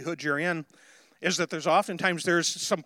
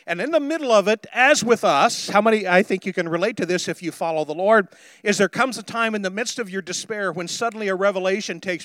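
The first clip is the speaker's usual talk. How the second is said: impassioned pulpit build; emphatic sermon delivery; fervent preaching; 3 semitones higher, 5 dB louder than usual. Real, not acted. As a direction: preach it with urgent conviction.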